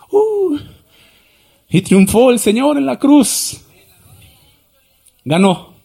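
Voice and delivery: loud, high, slow cry of victory; triumphant shout. Real, not acted. Preacher to congregation, shouting the victory. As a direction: proclaim the win at full voice.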